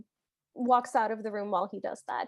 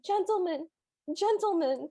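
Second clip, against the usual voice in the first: higher-pitched plaintive call at ordinary volume; plaintive mock yell; 4 semitones higher than usual. Tutor running after his departing pupils, mock plaintive yell. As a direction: imitate a plaintive call after someone leaving. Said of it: "yelling plaintively".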